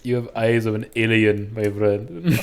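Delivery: put-on Indian-accented jibe; mock Indian accent. Indian Nord mocking the elf's eyes, mock Indian accent. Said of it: "I'm the Indian Nord".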